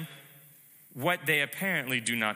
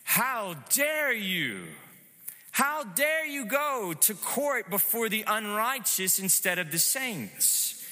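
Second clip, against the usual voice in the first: indignant rebuke; 4 semitones higher than usual. Retold or imitated. Apostle rebuking the Corinthian church, mild indignant rebuke. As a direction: scold them like the apostle would, dare held long. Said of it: "basically saying".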